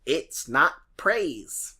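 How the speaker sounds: lightly voiced creepy puppet host; a hint of a creepy preacher; creepy Salty voice. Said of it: "my creepy, salty voice".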